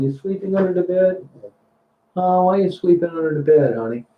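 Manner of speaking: high, sing-song question to the dog. Real, not acted. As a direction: coax the dog out gently. Asking the dog under bed.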